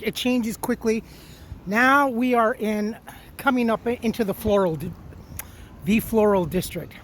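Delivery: talking around a lollipop; words round candy in the mouth; sucking a lollipop. Real, not acted. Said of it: "Sorry, lollipop".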